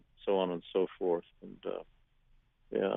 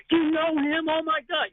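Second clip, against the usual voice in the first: high-pitched, louder gushing; excited fan imitation; 4 dB louder than usual. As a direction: mimic thrilled fans hearing big news. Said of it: "all of that excitement".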